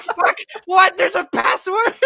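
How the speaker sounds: very high, loud wail breaking into laughter; hammed-up panic. Crew discovering the ship needs a password, hammed-up panic. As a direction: shriek in comic disbelief. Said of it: "they're just all panicking".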